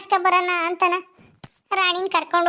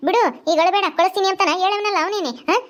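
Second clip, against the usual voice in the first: high village auntie voice; protest, then relent to the crying woman; defensive mother-in-law; 3 semitones higher than usual. Acted.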